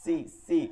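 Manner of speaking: "সি" with a sharp whistling s; thin sibilant "সি". Shown as a demonstration. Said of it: "সিরসির".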